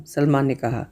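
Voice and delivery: usual speaking voice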